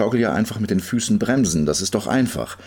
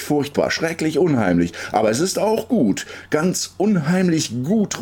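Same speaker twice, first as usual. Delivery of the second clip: breathless calling; 7 semitones higher than usual. A narrator's reading. Girl both scared and delighted, calling out. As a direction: build the thrill, stretching the end. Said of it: "ruft sie tief und atemlos".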